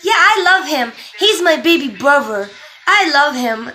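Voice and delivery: put-on high, loud little-kid gushing; imitated toddler. Two-year-old about his new baby brother, imitated loud affection. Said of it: "all I kept hearing from him was".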